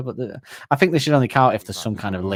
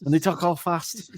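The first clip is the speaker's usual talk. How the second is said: frustrated mutter; 9 semitones higher than usual. Retold or imitated. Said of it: "he just gets frustrated".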